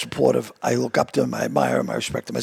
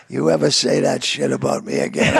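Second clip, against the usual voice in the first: lower, menacing retold warning; low, half-serious threat; mock threat; 6 semitones lower than usual. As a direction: lightly imitate someone warning you off. Actor's retold threat to the speaker.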